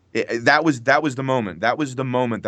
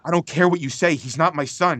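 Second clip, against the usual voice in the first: higher, quicker, disbelieving line; incredulous denial; 6 semitones higher than usual. Retold or imitated. Actor re-telling the father line, higher and incredulous. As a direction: toss the denial off in shocked disbelief. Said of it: "but it was just like".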